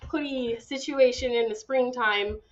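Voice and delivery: hoarse, sick raspy voice; raspy from a cold. Real, not acted. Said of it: "excuse my raspy voice".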